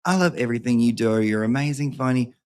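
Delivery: lightly put-on Southern accent. Host reading a fan email as he imagines it, Southern accent. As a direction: mimic a Southern fan gushing. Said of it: "everyone who's Southern sounds like YouTubery".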